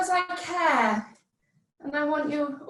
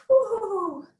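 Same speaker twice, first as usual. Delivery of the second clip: cheering; 5 semitones higher than usual. Real, not acted. Cheering class into leg lift.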